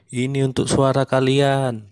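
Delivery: slow, laughing as he hands out bananas; laughing handout. Pretend. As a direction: chuckle through the bribe line slowly. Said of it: "sambil bilang". (tertawa pelan sambil bagi-bagi pisang)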